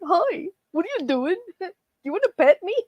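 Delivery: high, fast, eager dog voice; high cheerful pretend dog; playful dog voice. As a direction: voice the friendly dog inviting a pet. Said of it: "the way the dog was on the fence, like".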